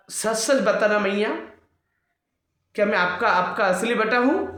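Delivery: a hurt child asking for the truth, lightly acted; upset child Krishna. Upset child Krishna confronts mother. (रूठे बालक जैसा ऊँचा स्वर)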